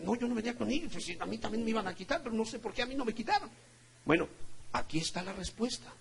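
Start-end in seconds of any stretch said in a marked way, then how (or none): 0.0-3.5 higher, hushed, quick reported reply; acted protesting passenger. Spared passenger denying he came with robbers, imitated hushed hurried protest. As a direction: imitate a bystander hurriedly explaining himself.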